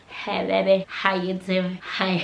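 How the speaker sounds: imitating his attempted American accent; lightly mock a badly faked American accent; a hint of fake American accent, flirting; put-on American accent. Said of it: "he's there trying to put an accent".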